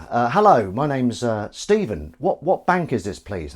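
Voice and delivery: put-on perfect English accent; performed English-accented audition line. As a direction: switch into a demonstrative English accent. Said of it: "he can do a perfect English accent".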